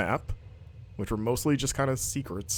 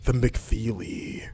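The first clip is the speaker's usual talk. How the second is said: seductive ad voice; 2 semitones lower, much slower than usual. Pretend. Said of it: "the ad's really seductive voice".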